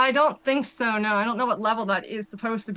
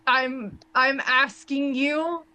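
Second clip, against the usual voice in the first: slow, halting plea; very reluctant; slower than usual. Acted. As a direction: ask for help haltingly, hating to do it. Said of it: "She is very reluctant".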